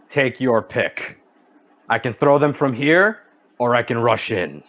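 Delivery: confident, even challenge; utmost confidence. Acted. Fighter offers the dragon a choice of attack, confident. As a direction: offer the choice with calm assurance. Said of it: "He says so with utmost confidence".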